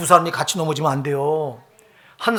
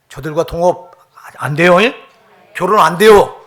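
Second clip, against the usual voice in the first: loud, rising forbidding cry; fiery preacher's no; shouted warning; 11 dB louder than usual. Real, not acted. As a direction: shout the ban at the congregation. Preacher forbids unbelieving marriage.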